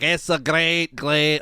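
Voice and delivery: half-hearted Scottish accent on "great"; a quick, failed stab at a Scottish accent; Scottish accent attempt. Shown as a demonstration. Host showing the Scottish accent he tried, half-hearted. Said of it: "I was trying to do, like, a Scottish".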